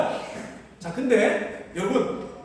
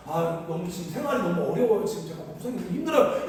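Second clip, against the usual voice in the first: sheepish excuse; 6 semitones lower, 4 dB quieter than usual. Retold or imitated. Broke classmate tells his seminary roommates he cannot chip in, sheepish and soft. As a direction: lower and softer, a sheepish classmate making excuses.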